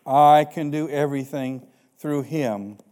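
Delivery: slow measured pulpit reading; scripture reading. Acted. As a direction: read Paul's words with weight. Reads Philippians aloud.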